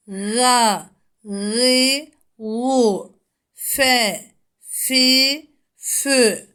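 each syllable crisp and separated; letter drill. Shown as a demonstration. Teacher drills letter sounds for pupils. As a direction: model the syllables for students. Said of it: "harflerin harekelerle okunuşu".

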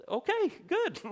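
very high strained okay, good; forced politeness. Retold or imitated. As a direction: nod along politely. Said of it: "You're like".

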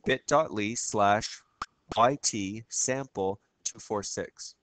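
spelling out a link letter by letter; slow dictation. Real, not acted. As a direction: read it out slowly so students can copy.

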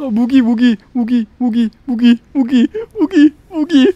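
frantic, high-pitched rushing; panicked. Real, not acted. Scrambling for weapon in panic.

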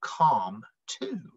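lively rhyming read-aloud; storybook voice for kids; reading to children. A narrator's reading. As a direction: read the rhymes to a young audience. Reads picture book aloud.

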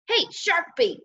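high, taunting call through a door; sister's mild yell. A narrator's reading. Sister pounding on brother's door, yelling. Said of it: "she yelled".

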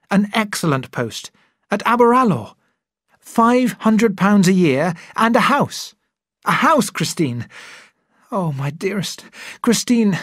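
high, loud, eager rush of news; can't hold back the joy; excited proposal. Acted. Young doctor proposing to his sweetheart, overjoyed and loud.

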